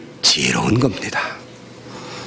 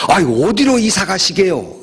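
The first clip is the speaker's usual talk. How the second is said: higher-pitched, mildly surprised question; curious surprise; 6 semitones higher than usual. Retold or imitated. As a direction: ask as a puzzled young man, retold. Young man questions the old president. (살짝 놀라 되묻는 젊은이 흉내)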